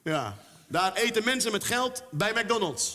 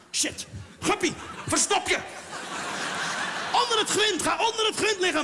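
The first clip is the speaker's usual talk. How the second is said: high, hurried, laughing panic; mock panicked whisper-shout; 10 semitones higher than usual. Goldfish owner hiding his guppy from inspectors, high mock panic. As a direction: hide the guppy before the raid.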